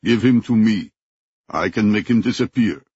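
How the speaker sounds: lightly voiced thick African accent; a hint of a heavy African accent, menacing offer. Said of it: "in a heavy native African accent".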